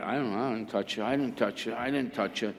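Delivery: soft, hurried imitation of people denying it; mock denial. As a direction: play the crowd quietly disowning it. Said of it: "they all denied it".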